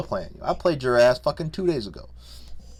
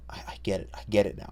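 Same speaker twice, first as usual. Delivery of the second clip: soft whisper of dawning understanding; hushed, half to himself; whispered realization; 3 semitones lower, 5 dB quieter, faster than usual. Real, not acted. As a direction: breathe it out like a quiet confession. Realizing he became his father.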